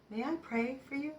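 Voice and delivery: tender imitation of a kind stranger; gentle offer. Young man's gentle offer to pray.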